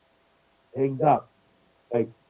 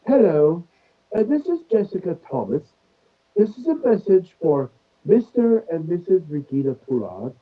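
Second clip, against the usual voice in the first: 1 British scam caller; 3 semitones higher than usual. Retold or imitated. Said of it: "lady with a British accent".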